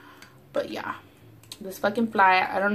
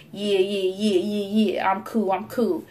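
acting cool; slower than usual. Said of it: "I was acting all bad".

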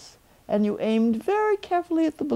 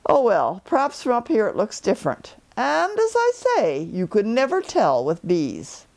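a cheerful little bear calling down; Pooh Bear; 2 semitones higher than usual. Acted. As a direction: Pooh calling down from his balloon. Pooh voiced in story.

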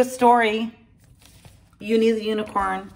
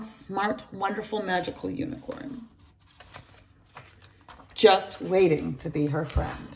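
put-on bright storytelling voice for kids; lively read-aloud for young children; story narration. A narrator's reading. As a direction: read it like a bedtime picture book. Reads a picture book aloud.

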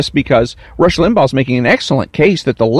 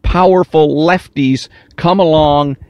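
whiny. Retold or imitated. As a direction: whine it like a poor victim. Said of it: "make it sound like, uh, a whiny".

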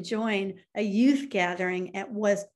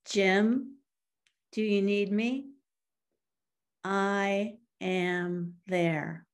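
voice of God; slower than usual. Retold or imitated. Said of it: "an audible voice".

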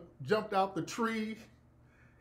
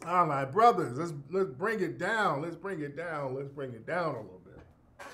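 calming down; 2 semitones lower than usual. Retold or imitated. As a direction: ease the actors down. Director calming actors.

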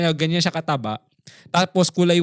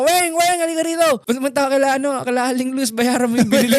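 high calling voice, pitched way up; 6 semitones higher than usual. Retold or imitated. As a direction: call the nanny from across the house. Mom calling the nanny angrily.

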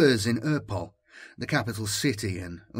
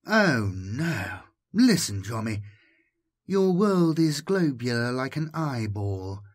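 caressing voice; 3 semitones higher than usual. Acted. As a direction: coax him gently, almost cooing. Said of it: "Was the languid voice male".

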